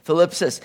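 Thlipsis with a lisped f-like th. Shown as a demonstration. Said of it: "you gotta say that with a little bit of a lisp".

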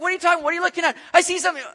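high, pressing "I see something"; excited disciple. Retold or imitated. One disciple insisting to another he sees something, excited. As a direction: insist to a doubting friend. Disciples argue over sighting.

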